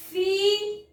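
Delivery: "filé" split as fi, lé; syllable by syllable. Shown as a demonstration. Teacher presenting the little word, divided into syllables. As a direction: pause between "fi" and "lé". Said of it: "vamos fazer a separação".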